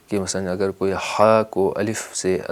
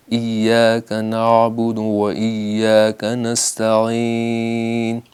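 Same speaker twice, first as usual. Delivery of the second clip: ایاک نعبد و ایاک نستعین recited very slowly; careful tajweed chant; slow recitation; 3 dB louder, much slower than usual. Shown as a demonstration. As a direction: chant it out for the class. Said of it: "فارسی لہجہ ہو تو".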